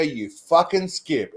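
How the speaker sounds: drawn-out contemptuous jab; mock hostile insult, slowed right down. Shown as a demonstration. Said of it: "it's all about how you use shit".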